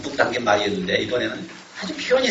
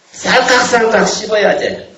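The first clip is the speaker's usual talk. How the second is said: Jeolla dialect; 6 semitones higher, 5 dB louder, slower than usual. Retold or imitated. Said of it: "씹히는 맛을 이렇게 표현했고요".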